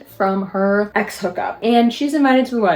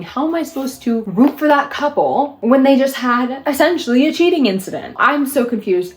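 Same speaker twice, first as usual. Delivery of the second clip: incredulous rant; 5 semitones higher than usual. Real, not acted. Ranting about cheating couple.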